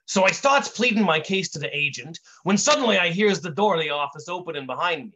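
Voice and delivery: lightly voiced wise-guy storyteller; Brick telling his tale. Brick tells his origin story to an audience, wise-guy storyteller. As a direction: tell it as a streetwise raconteur.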